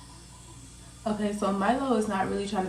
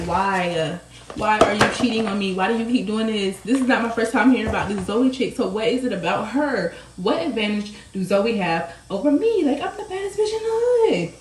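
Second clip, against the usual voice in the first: rising, louder pleading accusation; upset accusing; 3 semitones higher, 4 dB louder than usual. Retold or imitated. Drunk girlfriend confronting her cheating man, upset and loud.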